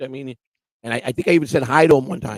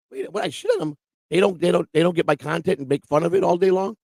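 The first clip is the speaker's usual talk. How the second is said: indignant comeback; 4 semitones higher than usual. Retold or imitated. Retells his indignant comeback.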